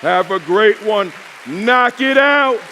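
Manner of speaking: loud, climbing to a high shout; building, drawn-out victory cry; rousing send-off. Real, not acted. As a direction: holler it slowly over the cheers. Shouted send-off over cheering.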